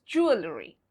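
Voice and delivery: JEWELRY as jool-uh-ree; silent E. Shown as a demonstration. Teacher sums up, JEWELRY as jool-uh-ree. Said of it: "the pronunciation of this word is".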